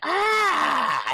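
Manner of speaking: short high shrieked "Ah!"; mock shriek for the flying handkerchief; high scream. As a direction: shriek like the cursed face. Imitating the handkerchief face screaming.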